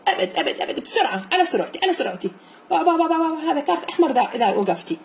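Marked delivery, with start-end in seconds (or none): 0.6-2.3 laughing. Real, not acted. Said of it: "laughing at pupil".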